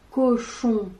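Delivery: cochon said slowly and clearly, co-chon stressed; syllables stressed. Shown as a demonstration. Teacher sounding out cochon for the class. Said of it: "le début de cochon".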